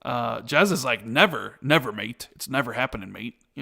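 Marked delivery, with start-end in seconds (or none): 1.1-3.4 a light mock Australian accent, imitating Jez; lightly put-on Australian twang for a mate's catchphrase. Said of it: "you said it with an Australian accent".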